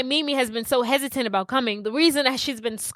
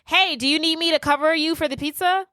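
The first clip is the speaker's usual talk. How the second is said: higher-pitched voice of another woman; lightly voiced woman calling out brightly; female voice; 5 semitones higher than usual. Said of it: "she hears a female voice".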